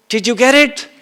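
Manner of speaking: teasing question through a laugh. Retold or imitated. Teacher asks his lecture audience, with a laugh. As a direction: ask it while chuckling.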